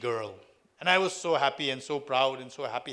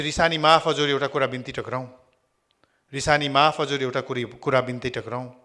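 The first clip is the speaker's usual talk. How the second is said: humble formal plea; 7 dB louder, much faster than usual. Retold or imitated.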